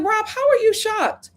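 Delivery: loud disbelieving retort; incredulous. Retold or imitated. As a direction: scoff at Rob's shock, pitched high. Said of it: "And I'm just like".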